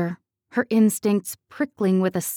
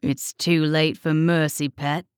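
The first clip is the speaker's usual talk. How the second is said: snarl; 4 semitones lower than usual. A narrator's reading. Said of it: "he snarled".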